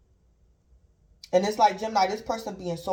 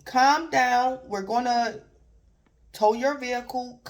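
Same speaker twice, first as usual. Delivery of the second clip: raised, firm calm-down voice; calming dispatcher; 4 semitones higher, slower than usual. Retold or imitated. Tow dispatcher calming a panicked driver, firm and raised. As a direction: settle a panicking caller. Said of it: "And Gemini, you like".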